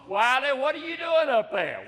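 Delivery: calling up. Acted. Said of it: "he called".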